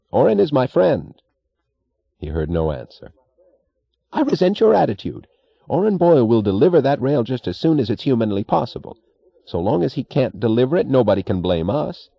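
a spoiled boss warning him off; peevish railroad boss. A narrator's reading.

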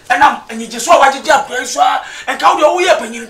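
shout. Acted. Elder scolding at meeting.

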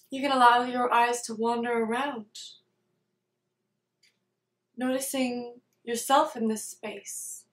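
calm meditation guide, unhurried, with long pauses between phrases; guided meditation. Real, not acted. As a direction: lead them gently through it, leaving space after each phrase.

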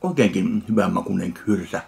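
ordinary delivery

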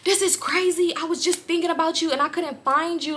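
a hint of the creepy guy gushing; lightly voiced excited man; imitating him. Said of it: "So he like".

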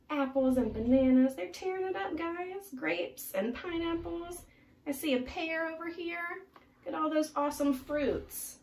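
amazed narrator; excited reading. Real, not acted.

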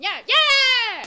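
slow loud high count; excited. Real, not acted. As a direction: land the final count. Counting the final number.

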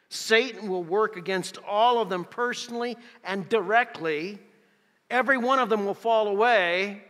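loud, insistent list, building in force; forceful preaching. Acted. Preacher lists why the disciples are discouraged, forceful and building.

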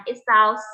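"It sounds" as a demonstrated hissing S; snake-like S. Shown as a demonstration. Teacher showing students what the letter S sounds like, snake-like S. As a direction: let the S in "It sounds" hiss like a snake. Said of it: "เหมือนงูนั่นเองค่ะ เพราะว่าตัว S เสียงมันแบบนี้".

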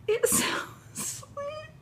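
slow, high, softened tearful squeak; real tearful cry-laugh; happy crying. Real, not acted. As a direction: choke up with delight mid-sentence. Moved to tears by baby clothes.

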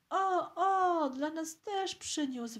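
put-on high, excited little boy's yell; piercing shriek. A narrator's reading. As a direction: cry it out high, loudest at the start. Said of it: "wrzasnął przeraźliwie chłopczyk". (przeraźliwy wrzask chłopczyka)

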